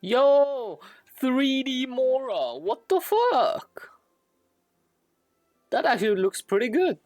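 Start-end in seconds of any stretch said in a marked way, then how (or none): none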